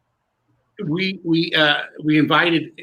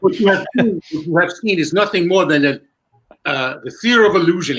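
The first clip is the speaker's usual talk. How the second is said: bad Indian accent; 2 semitones higher, 4 dB louder than usual. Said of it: "trying to do a bad Indian accent".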